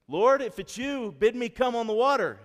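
high, loud shouted plea; calling out. Acted. Peter calls from the boat to Jesus on the water, high shout. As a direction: shout it up high across the waves.

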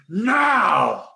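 a villain giving the signal to strike; a mild hammed-up orc shout of command; sorcerer's command. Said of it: "looks around the room and goes".

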